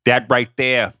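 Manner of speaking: hammed-up Boston accent; thick-tongued attempt at Boston speech. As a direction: imitate a Boston arena worker's accent. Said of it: "worst Boston accent".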